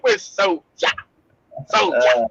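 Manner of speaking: "We're Soulja" with a light Jamaican patois lilt; Jamaican accent. Retold or imitated. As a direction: say "Soulja" the Jamaican way, soh-sha. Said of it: "with the Jamaican accent".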